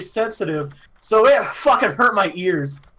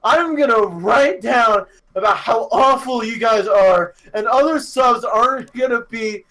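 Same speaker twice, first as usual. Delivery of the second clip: raised, higher mock rant; ranting teacher; 4 semitones higher, 4 dB louder than usual. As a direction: imitate a teacher scolding the whole class. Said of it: "go on a rant where it's just like".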